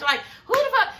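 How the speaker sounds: high, laughing outburst; laughing in disbelief. Real, not acted. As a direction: laugh through the outrage. Outraged laughing remark.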